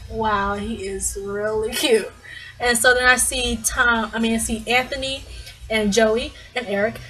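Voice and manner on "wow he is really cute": slow, hushed admiration; re-enacted starstruck wonder; smitten awe. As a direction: draw it out, quietly dazzled. Retells being smitten by singer.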